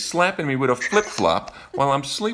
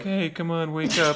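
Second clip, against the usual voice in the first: gentle wake-up; 6 semitones higher than usual. Retold or imitated. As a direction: pretend to coax someone awake gently. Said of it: "It's never like".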